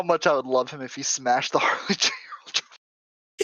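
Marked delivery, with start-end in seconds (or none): 1.5-3.4 laughing. Real, not acted. Imagining the trophy smash, laughing.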